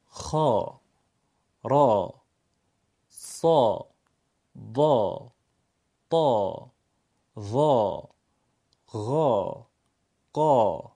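vertical mouth, fat stretched aa on every letter; heavy long alef. Shown as a demonstration. Teacher drilling heavy letters for pupils with a fat, drawn-out aa. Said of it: "صدای فتحه و الف مدی درشت و پرحجمه".

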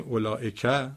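اولائکه rising onto the final که; stress on last syllable. Shown as a demonstration. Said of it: "کدومش رو بالاتر ببرید". (اولائکه با تکیه روی بخش آخر)

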